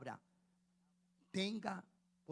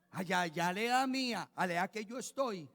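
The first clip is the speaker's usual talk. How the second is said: emphatic preaching; 3 semitones higher, 9 dB louder than usual. Real, not acted. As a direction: drive home the point with force. Preacher continuing loud.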